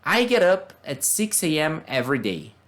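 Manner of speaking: model reading. Shown as a demonstration. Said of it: "Vamos ler uns, alguns exemplos".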